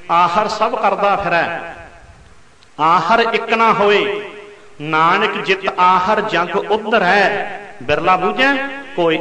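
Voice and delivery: slow, drawn-out recital of a holy verse; slow reverent verse reading to the congregation; scripture recitation. Acted. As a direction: stretch each phrase like a recited hymn line. Preacher recites a full verse.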